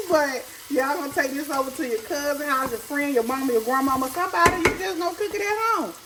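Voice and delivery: mock scolding the viewers, sassy and high; playful teasing. Real, not acted. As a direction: tease them, pitch climbing up. Teasing viewers about sharing food.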